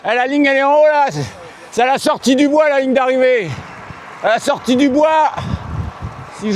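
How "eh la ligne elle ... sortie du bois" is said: raised voice calling the finish. Real, not acted. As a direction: shout the finish line ahead.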